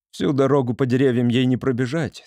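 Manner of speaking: plain reading voice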